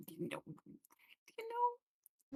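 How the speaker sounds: mysterious whispered "you know, you know"; breathy secretive whisper, drawn out slowly. Pretend. Ominous trailing-off about future.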